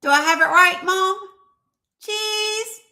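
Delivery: high-pitched mock little kid; toddler voice. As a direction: play a toddler checking with Mom mid-pose. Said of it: "when you teach a toddler to say cheese".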